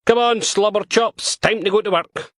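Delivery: handler calling dog. A narrator's reading. Dog handler calling her dog to work, high coaxing voice.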